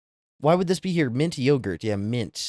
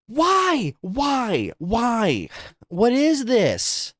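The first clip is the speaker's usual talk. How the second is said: can't believe what you're seeing; disgusted disbelief; 11 semitones higher, much slower than usual. Real, not acted. Disgusted by food photos.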